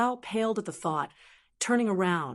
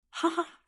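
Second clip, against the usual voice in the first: short, high "ha ha" laugh; light, understated narrated chuckle; acted laugh; 8 semitones higher than usual. A narrator's reading. Yushu amused by her friend's confusion, short acted laugh. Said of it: "made Yushu laugh out loud".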